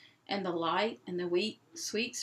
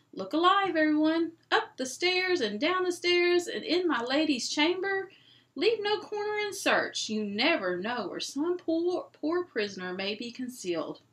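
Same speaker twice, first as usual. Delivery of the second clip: loud, high rallying cry; lion urging everyone to search; rousing call; 7 semitones higher, 4 dB louder than usual. Acted. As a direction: call the crowd to action.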